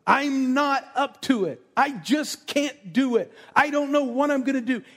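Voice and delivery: high, loud despairing wail, acted out; mock crying. Preacher acting out a believer overwhelmed by the enemy, mock crying. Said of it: "laying on your face crying, going".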